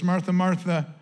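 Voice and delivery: low, gentle compassionate tone; a soft, tender rebuke from Jesus. Shown as a demonstration. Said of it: "his tone here is one of soft and one of compassion".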